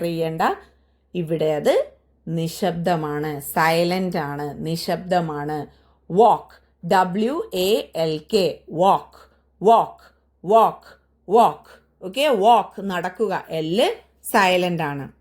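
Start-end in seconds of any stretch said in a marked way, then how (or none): 6.1-12.0 louder, firm one-word drill; loud drill repetition. Shown as a demonstration. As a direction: call out each word for the class. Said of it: "teacher drills the word walk".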